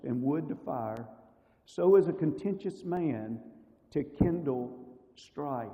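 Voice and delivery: slow, weighty reading of the verse with long pauses; slow scripture reading. Acted. Preacher reads Proverbs to the congregation, slow and deliberate. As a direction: let each phrase of scripture land slowly.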